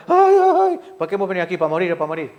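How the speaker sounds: high mock wail, then whining complaint; hammed-up weeping moan of despair; mock wailing lament. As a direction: ham up a crowd's crying, pitched high on the ay ay ay. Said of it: "todo el pueblo se echó a llorar".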